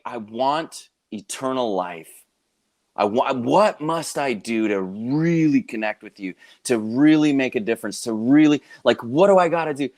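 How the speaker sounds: earnest pleading. Retold or imitated. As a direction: imitate a seeker's plea, building from restrained to insistent. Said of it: "for this specific guy who felt that desire".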